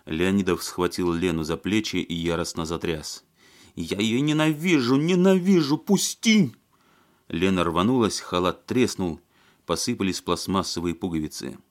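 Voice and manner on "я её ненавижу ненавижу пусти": high, loud hysterical shriek; hysterical scream. A narrator's reading. Lena shrieks her hatred while he shakes her. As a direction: tear free and shriek it out.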